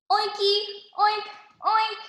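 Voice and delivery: high playful oinking; piggy oinks. A narrator's reading. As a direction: oink like a happy little pig. Pigs greeting in pig talk.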